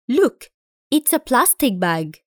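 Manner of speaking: slow, clear English for learners to repeat; slow model reading. Shown as a demonstration. Teacher models a sentence for the class, slow and clear. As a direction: read it slowly so students can copy. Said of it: "Listen and repeat".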